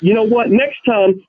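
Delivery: gruff old-timer telling him off, lightly voiced; a hint of a cranky old man scolding; old bogey snap. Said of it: "This is exactly how I sounded too, like in some old bogey".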